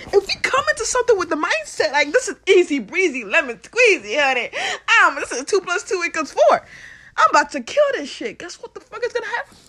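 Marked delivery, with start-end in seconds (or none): 2.1-8.4 loud laughing confident; playful confident brag; cocky. Retold or imitated. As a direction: breeze through it. Confident mindset voiced.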